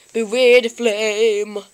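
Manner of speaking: low, slow ominous warning; drawn-out, mock-menacing warning; Charmander. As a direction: intone the threat slowly. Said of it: "Charmander said that".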